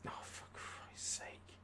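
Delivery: slow, hushed despair under the breath; exasperated whisper. Real, not acted. Fed up with his team's luck, a slow hushed whisper. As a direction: mutter it to yourself. Frustrated at match event.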